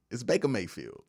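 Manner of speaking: "Baker" tossed off softly as BAY-kuh; "Baker" ending in uh, no R. Shown as a demonstration. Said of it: "That don't even sound right".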